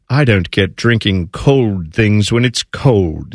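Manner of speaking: lightly mock a puzzled English person, slowly. Cohost imitates English people on iced coffee, mildly mocking. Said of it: "I love how English people are like".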